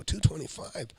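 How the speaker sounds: surprised. Retold or imitated. Incredulous repeat of asking price.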